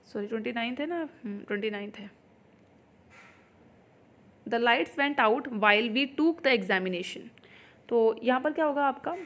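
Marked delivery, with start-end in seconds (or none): 4.5-7.3 slow, word by word sentence reading; slow dictation read. Shown as a demonstration. Teacher reading the exam question to students, slowly. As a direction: spell the sentence out for the class.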